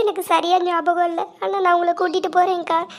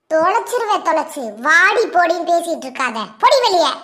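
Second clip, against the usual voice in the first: rising to a louder furious order; angry quarrel; 4 dB louder than usual. Acted. Wife scolding the sister-in-law, angry shouting. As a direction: throw her out, shouting by the end.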